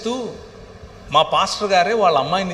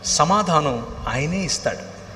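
usual speaking voice

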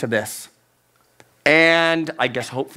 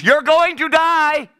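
high, slow half-laughing yell; mock yell at the TV; 12 semitones higher than usual. Viewer yelling at a movie character, laughing mock yell. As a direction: laugh while yelling at the screen. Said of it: "you start screaming at the T V".

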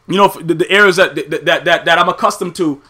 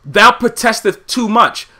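mock Shakespeare; slower than usual. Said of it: "of the great Shakespeare".

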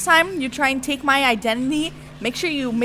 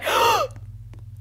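dramatic gasp. Pretend.

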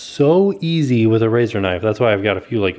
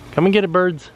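calling the birds; 5 semitones higher than usual. Shown as a demonstration. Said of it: "a call that I do for the birds".

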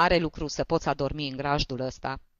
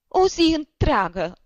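"o zi întreagă" wailed higher and louder, slowly, weight on "o"; sobbing lament; 12 semitones higher, 7 dB louder than usual. A narrator's reading. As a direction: drag out "o zi întreagă" through sobs, leaning on "o". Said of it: "izbucni din pieptul lui un hohot de plâns".

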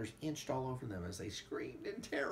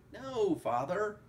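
urgent; 9 semitones higher, 5 dB louder, slower than usual. A narrator's reading. Son protests urgently.

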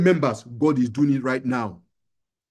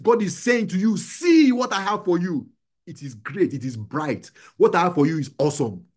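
emphatic, insistent exhortation in repeated bursts; very excited preaching. Real, not acted. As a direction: urge them on with mounting fervour. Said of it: "I'm sounding very excited".

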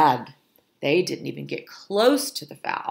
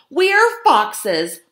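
loud, higher, indignant yell; indignant scream; 5 semitones higher, 7 dB louder, slower than usual. A narrator's reading. Meat-eating fox refusing French fries, loud indignant scream. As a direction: yell it emphatically, word by word. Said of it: "screamed Flo".

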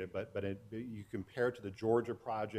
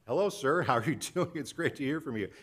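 eager star-struck hello; 4 semitones higher, 7 dB louder than usual. Retold or imitated. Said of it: "I'm like".

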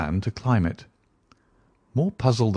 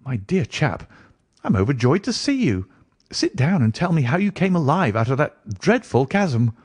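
mildly elated, higher-pitched greeting; overjoyed welcome; 5 semitones higher than usual. Acted. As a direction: welcome a dear friend with lifted, lightly excited pitch. Watson overjoyed, welcoming his friend back.

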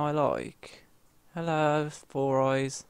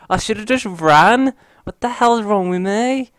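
higher, louder self-scolding; frustrated shout; 8 semitones higher, 10 dB louder than usual. Real, not acted. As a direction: rage at yourself for not running. Self-scolding right after dying.

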